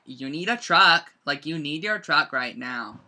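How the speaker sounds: "truck" punched loud, slowly; slow, insistent mock order with weight on "truck"; emphatic retelling. Warehouse helper telling her about a big order, emphatic. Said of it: "And she's like".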